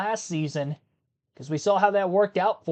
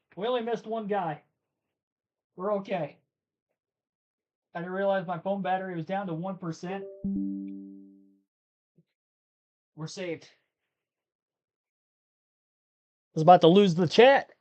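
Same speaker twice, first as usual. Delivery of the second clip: out of breath, winded. Returning after running downstairs for a phone charger, out of breath. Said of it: "Might be out of breath".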